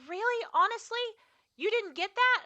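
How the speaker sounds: high, disbelieving questions; imitating the ex-friend's high incredulous questions; mock incredulous friend. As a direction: play her shocked that nobody chased her.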